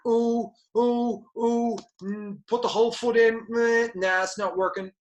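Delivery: half-hearted dabbler. Retold or imitated. Mocking someone who dips a foot in, high and whiny. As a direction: toy with the idea, then shrug it off, high and mock-whiny. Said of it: "if that's your attitude".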